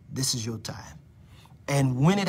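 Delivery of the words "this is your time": whispered assurance, fading; prophetic whisper. Real, not acted. Preacher whispering assurance to Michelle Wood. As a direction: lean in and whisper it.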